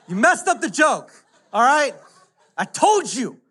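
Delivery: laughing. Real, not acted. Teasing tech about missed joke.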